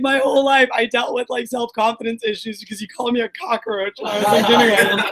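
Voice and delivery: retold through laughter; half-laughing, imitating her sister's grievance; sister's complaint, laughing. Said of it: "she's like".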